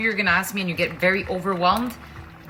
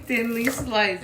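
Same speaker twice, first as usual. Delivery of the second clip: higher, slow and drawn out through onion tears; teary from onions; 4 semitones higher, 4 dB quieter, slower than usual. Real, not acted. Slicing onions on camera, talking through real onion tears. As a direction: stretch the words out, eyes streaming from the onion. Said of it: "as I'm crying".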